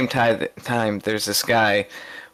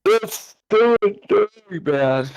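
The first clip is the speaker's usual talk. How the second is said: pitched way up, slow and drawn out; incredulous exclamation; 10 semitones higher, slower than usual. Real, not acted. Reacting to his friend's cashier story, high drawn-out disbelief. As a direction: savor the disbelief.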